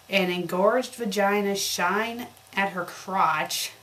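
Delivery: ordinary delivery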